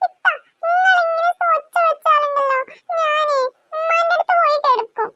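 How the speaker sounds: high, crying complaint; tearful threat. Acted. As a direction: whine through tears.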